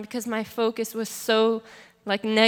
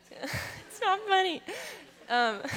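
real laugh breaking into higher-pitched words; 9 semitones higher, slower than usual. Real, not acted. Speaker breaking up mid-testimony, laughing. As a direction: protest through your own laughter. Laughs during own sad story.

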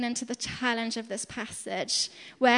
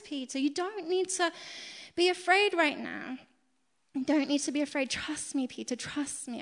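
gentle Jesus; 2 semitones higher than usual. Retold or imitated. And he's like.

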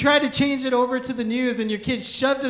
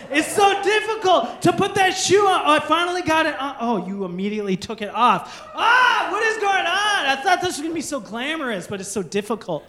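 exasperated dad; 2 semitones higher than usual. Retold or imitated. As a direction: play the overwhelmed new dad. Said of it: "now I'm like".

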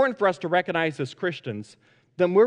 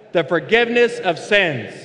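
congregation unison recital; 5 dB louder than usual. Real, not acted. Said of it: "Let's say this together".

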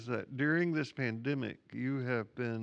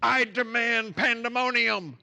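loud, high, slow booming proclamation; professor's demand; 11 semitones higher, 10 dB louder than usual. Retold or imitated. Professor silences an unruly class, loud and slow. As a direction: boom it out like a professor slamming the podium. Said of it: "slammed his hand down as hard as he could".

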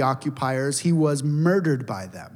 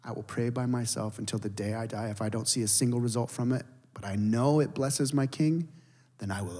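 tearful vow; 3 semitones lower, 6 dB quieter than usual. Retold or imitated. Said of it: "she just broke down weeping".

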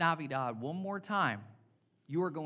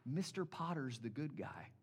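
low, soft mock grump; lightly voiced Scrooge siding with the villain; 5 semitones lower, 10 dB quieter than usual. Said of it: "he's like".

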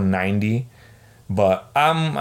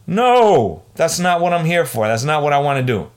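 louder and higher, exasperated no; fed-up outburst; 5 semitones higher, 4 dB louder than usual. Real, not acted. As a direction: burst out, you've had enough. Ranting about chores on day off.

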